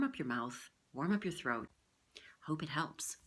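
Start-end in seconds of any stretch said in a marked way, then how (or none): 2.5-3.2 soft whispered sign-off; whispering. Real, not acted. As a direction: whisper it gently.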